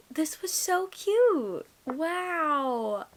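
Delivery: slow, awed whisper. Real, not acted. Whispering to camera, overwhelmed by the ending. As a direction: breathe it out, overwhelmed. Overwhelmed after finishing book.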